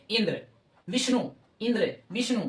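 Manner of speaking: first syllable of इंद्र and विष्णु pressed; stress on first syllable. Shown as a demonstration. Teacher shows word stress to students, first syllables of इंद्र and विष्णु stressed. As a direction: lean on the opening इं of इंद्र and वि of विष्णु. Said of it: "उसी पर विशेष बल लगेगा".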